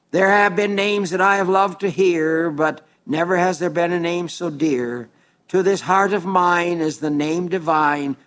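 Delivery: hymn words recited with devout, measured care. Acted. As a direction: read the hymn like a heartfelt poem. Recites hymn lyrics as poem.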